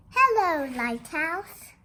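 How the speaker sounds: high, loud sing-song hello; called hello. Pretend. Reader greets the lighthouse with a loud sing-song call. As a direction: call out across the water.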